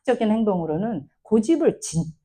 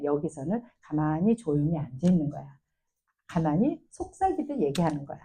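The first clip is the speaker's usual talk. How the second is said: put-on a soothing parent guiding a child to sit still; calm teaching voice; 3 semitones lower than usual. Shown as a demonstration. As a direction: gently teach the child what to do. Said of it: "가르치는 거죠".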